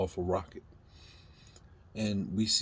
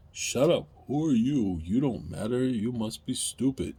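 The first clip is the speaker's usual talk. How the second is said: mock dismissive government; 3 semitones higher, 4 dB louder than usual. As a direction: sneer like an arrogant official. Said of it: "government treats us like".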